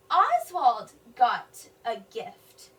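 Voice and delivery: each word sounded out slowly, flat ending; slow decoding read. Shown as a demonstration. Teacher reading aloud to children, slow and clear. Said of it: "it's a declarative sentence".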